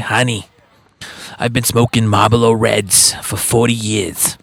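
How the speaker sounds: a hint of a smoke-worn older lady; smoker lady. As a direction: say it like a longtime smoker. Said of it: "she's like".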